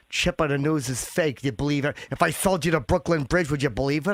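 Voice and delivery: lightly voiced scolding mother; mother's voice. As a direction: lecture your son like his mother. Son voices his mother.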